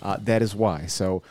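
slight lisp from a retainer; talking with a new retainer in; lispy retainer speech. Real, not acted. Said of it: "if I sound, like, lispy or weird".

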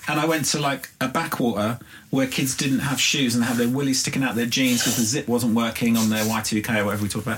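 put-on high, lively Irish accent. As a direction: tell it in a broad Irish accent. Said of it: "I'm about to do an Irish accent".

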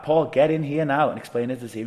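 exasperated summons; insistent order. Retold or imitated. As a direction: order him inside with growing impatience. Retold order, repeated more insistently.

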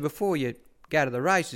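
instructing in a lightly put-on voice; Bart. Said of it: "he said".

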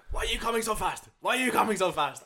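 high, loud hammed-up Italian accent yelling; mock Italian accent. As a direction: shout like an angry Italian biker. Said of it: "he has this, like, Italian accent".

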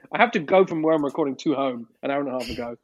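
tinny phone-line sound; talking down a payphone line; payphone call. Real, not acted. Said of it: "from a phone box".

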